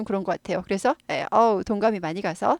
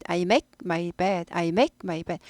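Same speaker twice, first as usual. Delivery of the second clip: smooth linked speech; 4 semitones lower, 4 dB quieter, much slower than usual. Shown as a demonstration. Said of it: "고급 영어입니다".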